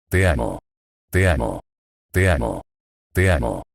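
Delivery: bruja susurrando. Acted. La bruja repite te amo.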